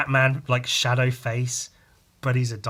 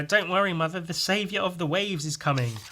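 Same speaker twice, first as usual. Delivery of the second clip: heroic voice; 6 semitones higher than usual. Retold or imitated. Hero announces himself.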